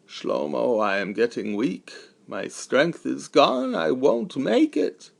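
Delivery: fading to a slow breathless whisper; a worn-out man giving up; weakened friend. Acted. Exhausted friend confides despair.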